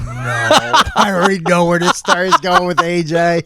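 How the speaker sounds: laughing. Real, not acted. Friend guesses where story goes.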